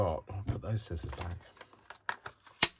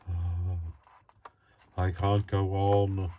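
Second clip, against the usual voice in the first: slow, louder tired groan of a line; mock exhausted; 5 dB louder, much slower than usual. Describing late-night tiredness, mock weary moan. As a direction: ham up being worn out. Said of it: "I start to feel a bit".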